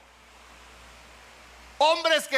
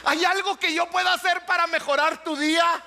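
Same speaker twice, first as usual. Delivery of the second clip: smiling offer; 4 semitones higher than usual. Retold or imitated. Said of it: "con una sonrisa y le dices".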